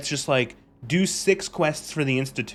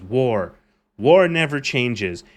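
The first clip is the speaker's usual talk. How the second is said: a hint of louder, slow narrator gravitas; quoting the narrator; 2 semitones lower, 5 dB louder, slower than usual. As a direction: intone the famous opening. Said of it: "the first line you have is".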